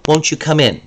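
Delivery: "Won't" lifted, gently inviting; polite invitation. Shown as a demonstration. Teacher showing a polite invitation. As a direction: welcome them in warmly. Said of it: "very nice, polite way".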